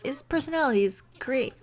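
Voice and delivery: barely convincing praise. Acted. Rosie defending the professor to Julie, barely convincing praise. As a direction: push the praise out, not quite convinced. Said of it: "She can barely say it".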